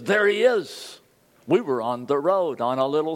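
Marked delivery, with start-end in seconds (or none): 0.0-1.0 higher-pitched exclamation on spotting someone; imitating a friend's excited discovery; excited retold cry. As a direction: point him out with sudden excitement. Acted cry on spotting the man.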